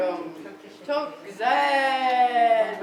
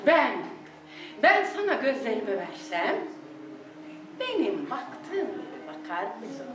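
poem recitation; 2 semitones lower than usual. Acted. Recites love poem over music.

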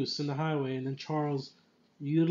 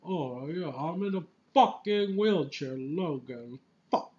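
imitated grumbling professor, swearing; lightly put-on exasperated old man; Patrick Stewart cursing. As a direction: grouse and curse in a mock-theatrical voice. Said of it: "I love how Patrick Stewart curses".

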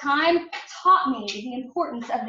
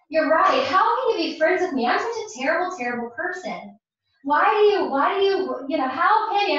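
higher and louder, self-reproaching rush; distraught friend; 3 semitones higher, 6 dB louder than usual. Retold or imitated. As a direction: let the guilt spill out pleading. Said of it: "She's like".

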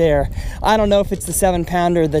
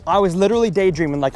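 ordinary talk

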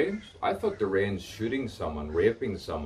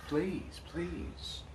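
high pleading; 10 semitones higher, 6 dB quieter than usual. Acted. Pleading after repeated request.

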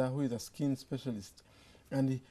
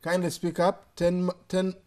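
louder and higher over a bad line; to someone hard of hearing; 5 semitones higher, 7 dB louder than usual. Real, not acted. Caller hard to hear.

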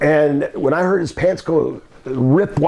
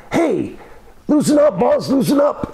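much higher, frantic begging; panicked pleading; 11 semitones higher than usual. Retold or imitated. Coco in a face lock begging the boss, high and frantic. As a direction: beg him to loosen the grip. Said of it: "Coco was saying".

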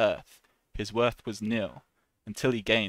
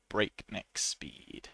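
slow, breathy whispered breakneck speed; 2 semitones lower, 7 dB quieter, much slower than usual. Shown as a demonstration. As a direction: whisper it slowly for effect. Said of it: "whispered demo of phrase".

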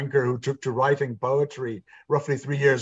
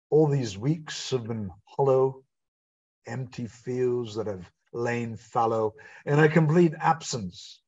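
poetry recital. Acted. Recites My Muse Returns.

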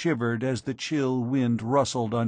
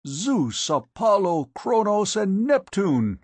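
rising roar, much higher and louder; 9 semitones higher, 4 dB louder than usual. A narrator's reading. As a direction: bellow each god's name in awe. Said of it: "he roared".

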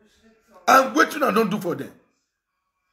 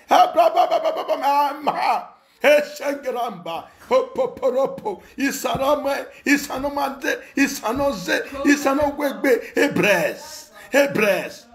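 mock tongues; 6 semitones higher, slower than usual. Mocking pastors' prayer babble.

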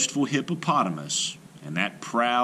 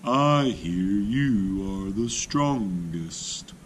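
sly challenge; 6 semitones higher, much slower than usual. A narrator's reading. Tortoise challenges hippo.

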